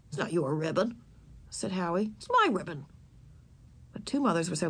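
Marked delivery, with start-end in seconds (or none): 0.1-2.8 put-on stubborn boy. A narrator's reading. Howie calm, stubborn.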